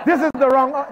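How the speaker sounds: high, loud mock protest; loud, laughing panic; retold panic. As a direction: protest in comic alarm. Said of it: "I was scared".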